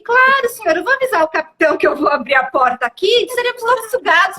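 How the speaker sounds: sarcastically obliging flight attendant; mock politeness. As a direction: play over-helpful service, dripping with irony. Sarcastic mock offer to smoker.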